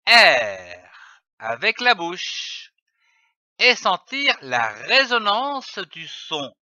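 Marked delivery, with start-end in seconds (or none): 0.1-0.9 R grave et appuyé, bien tenu; son R. Shown as a demonstration. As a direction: faites résonner le R dans la gorge. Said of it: "pour voir la formation du son". (« R » prononcé grave et sonore dans la gorge)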